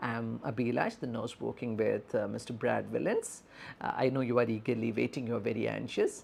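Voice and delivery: soft, gentle nurse introduction; empathetic. Shown as a demonstration. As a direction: reassure an anxious bystander in a softened voice. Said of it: "So we are empathetically addressing".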